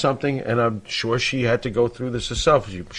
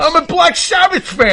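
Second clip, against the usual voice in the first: booming pharaoh; 7 dB louder than usual. Pretend. Jokey loud protest during singing bit.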